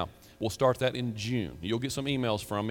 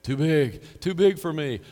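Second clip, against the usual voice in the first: overwhelmed protest; 4 semitones higher, 7 dB louder than usual. Pretend. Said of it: "he'd be".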